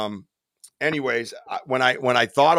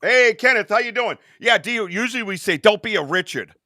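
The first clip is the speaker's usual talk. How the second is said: cheery phone agent; 8 semitones higher, 4 dB louder than usual. Retold or imitated. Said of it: "the girl breaking character".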